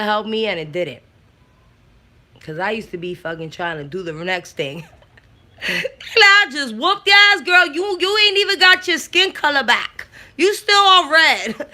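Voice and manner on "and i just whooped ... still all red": laughing taunt. Retold or imitated. Mocking herself after beating.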